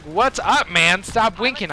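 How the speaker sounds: openly calling out the winker; said out loud. Retold or imitated. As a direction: blurt it so everyone hears. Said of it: "I say this out loud".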